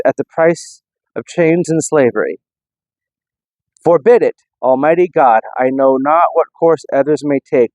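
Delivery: lightly declaimed famous speech; reciting the speech. Retold or imitated. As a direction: read the old speech with some ceremony. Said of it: "It says".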